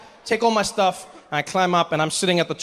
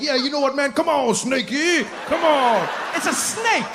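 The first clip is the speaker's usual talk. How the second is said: much higher, slow coaxing come on snakey; mock macho bravado; 8 semitones higher than usual. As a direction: coax the snake like a fool. Imagined macho snake handler.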